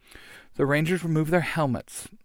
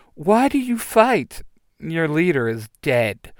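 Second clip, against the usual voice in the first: taunting villain; 3 semitones higher than usual. Acted. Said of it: "he says".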